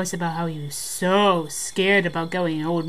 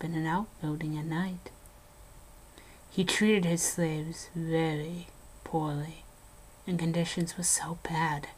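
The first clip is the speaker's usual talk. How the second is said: hushed ghost-story telling, dropping to whispers; eerie storyteller voice, sinking into whispers at the grim parts; spooky story narration; 4 dB quieter than usual. Acted. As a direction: tell it like a campfire ghost story. Spooky ghost story told to friend.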